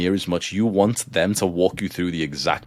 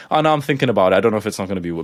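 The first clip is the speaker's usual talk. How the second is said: mocking the driver; much faster than usual. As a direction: parrot his hesitation with scorn. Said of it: "mocking the driver's words".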